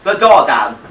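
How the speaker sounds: sweetly patient teacher coaxing toddlers; nursery school teacher. Acted. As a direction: talk to the little ones like a kind, firm nursery teacher.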